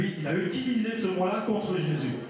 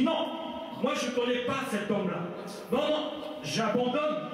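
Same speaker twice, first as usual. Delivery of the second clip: higher, emphatic refusal; sworn denial; 5 semitones higher than usual. Acted. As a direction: renounce him firmly, voice lifted. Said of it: "Il a nié avec serment". (reniement solennel, joué)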